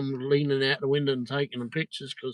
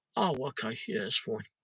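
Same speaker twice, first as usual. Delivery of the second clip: put-on quiet, meek man's voice, quieter; 6 dB quieter than usual. Retelling a man's reply to the speaker's visit; imitating a quiet, meek man. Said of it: "he was so quiet and flipping meek".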